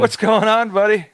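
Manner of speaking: high, loud cooing at a pet; calling a pet in a sing-song voice; pet talk. Real, not acted. Greeting the pet that came back.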